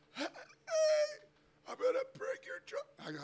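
high called-out hey; calling out. Retold or imitated. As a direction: call it down the street. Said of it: "I was like".

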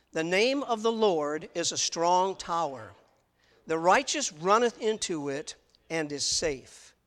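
slow, deliberate reading with the congregation; slow unison reading. Shown as a demonstration. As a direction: lead the room through the verse word by word. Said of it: "read that verse together with me".

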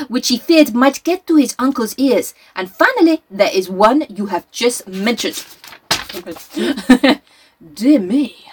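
lightly voiced Belgian detective, reading aloud; a hint of Poirot's fussy French lilt.

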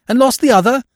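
high incredulous rise; surprised question. Acted. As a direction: ask it in disbelief. Freddy mocks repeated question.

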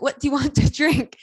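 high, loud imitated English accent. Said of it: "Like, in an English accent".

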